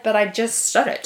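soft, slow mock explanation; quietly insisting, rising at the end; matter-of-fact. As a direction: imitate an understated, matter-of-fact spouse. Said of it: "In a very matter-of-fact voice".

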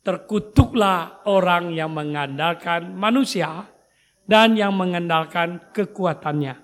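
slow, loud solemn reading of scripture. Acted. Pastor leading the congregation in reading the verse, slow solemn reading. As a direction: read the verse slowly, with weight.

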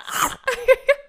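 goofy cartoon dog bark from the throat; cartoon dog noise. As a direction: make a silly cartoon dog sound. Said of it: "That sounded like a cartoon dog".

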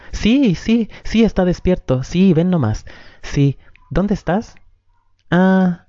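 wife chatting to her brother on the phone, sweetly high and cheerful; cheery phone voice. Acted. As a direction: put on a sunny voice for the brother on the phone.

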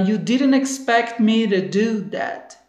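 each word stretched out; slow demo. Shown as a demonstration. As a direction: model it slowly for students. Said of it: "Perceba que ele fala".

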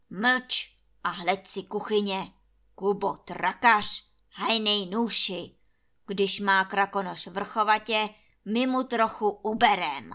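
loud, domineering landlord; thundering command. A narrator's reading. Landlord silencing Anče and ordering the servants, loud. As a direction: thunder it down at everyone. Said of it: "zahřmí Trautenberg".

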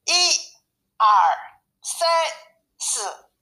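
high-pitched roll-call count; mild storybook call, each number separate. A narrator's reading. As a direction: count off the cubs one by one. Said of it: "熊妈妈就高声叫道".

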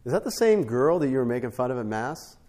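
pointed question. Retold or imitated. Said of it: "I was like".

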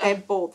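"bald" with an open aw vowel; bald, not bold. Shown as a demonstration. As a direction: say "bald" loudly as "bawld". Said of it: "They're not bold".

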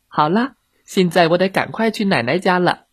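put-on high child's voice; little girl. Red Riding Hood leaving for grandma's, high voice. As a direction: announce it as a girl in a hurry.

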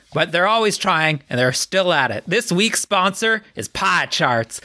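lightly voiced middle-aged man ad read; forty-year-old man voice. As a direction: read it like an earnest sponsor ad. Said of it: "forty-year-old man voice".

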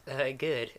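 light southern reply; southern accent. Acted. Game master's character answers the sleeper, southern accent. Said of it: "this is the accent".

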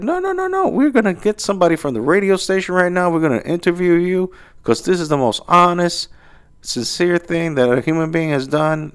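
very high, fast, eager praise; gushing excitement. Retold or imitated. Pizzeria staff gushing about a radio interview, very high. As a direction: rave about the most honest deed ever.

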